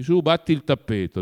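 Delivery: bossy ordering, loud; husband bossing his wife about, imperious; imperious growl. Acted. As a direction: order her about like a despot. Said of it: "ringhiava Zahar in tono imperioso".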